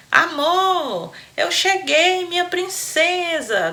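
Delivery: put-on high, fumbling foreign-accented Portuguese; clumsy gringo accent. Gringo announcing his arrival to his princess, high, foreign-accented. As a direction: say it like a gringo tripping over Portuguese. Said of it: "Daquele jeito como um gringo fala, todo atrapalhado".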